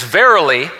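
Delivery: "Verily" punched out loud; emphatic. Retold or imitated. Preacher quoting the Bible's verily, emphatic. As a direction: lean hard on "Verily". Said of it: "and again, that's emphatic".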